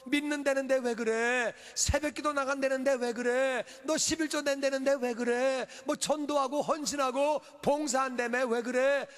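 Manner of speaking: acted jeering, question after question; mocking taunts. Enemies ridiculing a churchgoer's devotion, mocking. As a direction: pile up the taunts with preacher's force. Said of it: "원수들이 조롱하는 거예요".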